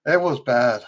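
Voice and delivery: drained, hoarse and low; weak tired voice. Real, not acted. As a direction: sound worn out and weak. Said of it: "I'm about to lose my voice".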